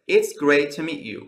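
"to" shrunk to "tə" after "great"; reduced "to". Shown as a demonstration. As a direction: say "to" as a quick weak "tə".

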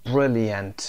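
"Brilliant" with a reduced schwa ending, BRIL-yənt; schwa pronunciation. Shown as a demonstration. Teacher models the schwa for learners, "Brilliant" as BRIL-yənt. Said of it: "شوا داریم".

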